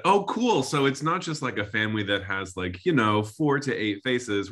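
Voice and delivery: high-pitched, mock-innocent client quote; lovingly enthusiastic. Client lovingly acknowledging the type designers' plan, sweetly eager. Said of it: "we lovingly said".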